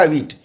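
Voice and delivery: व्हीट said like English "wheat"; French eight. Shown as a demonstration. Showing the pupil the English spelling of the sound. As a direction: pronounce व्हीट with a long ee. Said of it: "English में उच्चारण होगा".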